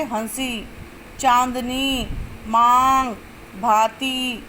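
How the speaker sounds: हंसी, चांदनी, मांग, भांति with air through mouth and nose together; careful word list with nasal vowels in हंसी, चांदनी, मांग, भांति; nasalised vowels. Shown as a demonstration. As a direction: sound out each word singly, nasalising its vowel. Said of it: "मुख से भी और नाक से भी".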